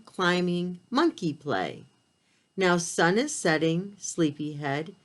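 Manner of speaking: gentle rhythmic read-aloud; bedtime story reading. A narrator's reading. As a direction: read it like a lullaby book. Reads bedtime picture book.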